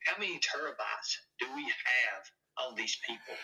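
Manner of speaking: conspiratorial whisper. Acted. Cohost whispering about files on people, in a whisper. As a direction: whisper the question.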